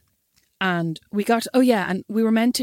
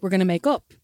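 naive hopeful self; 3 semitones higher than usual. Retold or imitated. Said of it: "At that point, I was like".

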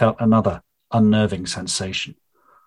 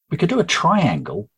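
lightly voiced Faye; 5 semitones higher than usual. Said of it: "Faye said".

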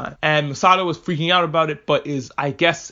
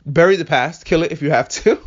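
mock Kylo Ren; 4 dB louder than usual. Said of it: "recites the credo of Kylo Ren".

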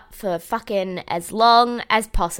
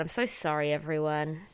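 ordinary talk, nothing marked

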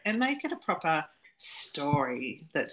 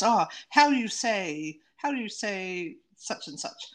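mock Italian accent; 4 semitones higher than usual. Podcaster mocking an actor's fake Italian accent in the film. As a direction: lightly mimic a stage Italian accent. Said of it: "he says in that way that is almost like a comical thing that people say when they're taking off Italians".

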